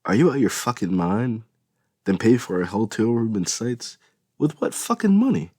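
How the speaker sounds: loud, rising furious questioning; angry interrogation. A narrator's reading. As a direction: grill her, getting angrier. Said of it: "He interrogated".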